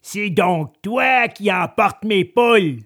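slow, mildly angry accusation; acted peasant indignation; angry farmer. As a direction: accuse like a cross farmer, drawing it out. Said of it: "s'exclama le paysan en colère".

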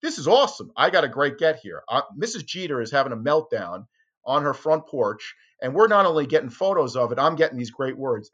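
loud, high gleeful inner voice; gleeful thought. Retold or imitated. Reporter gloating to himself over the scoop, loud glee. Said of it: "I'm thinking to myself".

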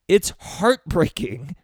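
real emotion spilling up, slow; rising heartbreak. Real, not acted. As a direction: let it break open, slowly and high. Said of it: "I'm starting to get emotional".

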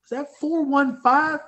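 high, slow, disbelieving ask; high incredulous question. Retold or imitated. Lifter asking the loader about the weight, high and slow in disbelief. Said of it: "I go".

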